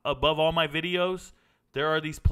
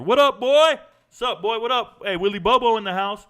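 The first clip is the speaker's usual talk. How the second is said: much higher, louder shout-out; hype greeting; 8 semitones higher, 9 dB louder than usual. Real, not acted. Host greeting Willie Bobo in chat, excited shout-out. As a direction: hail a buddy walking in.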